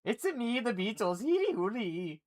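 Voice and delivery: hammed-up band member, clearly faked; bad band impression. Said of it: "I don't really know how to do the band".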